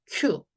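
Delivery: 큐 said with a "kyoo" vowel; long-u demonstration. Shown as a demonstration. Teacher showing how to read c-u, long-u demonstration. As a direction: read 큐 as one "kyoo" sound. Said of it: "유로 읽어라".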